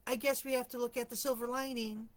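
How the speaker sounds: a touch of snark in the retold line; mock her dry, sarcastic tone; snarky. Quoting the miserable coworker's reply, lightly snarky.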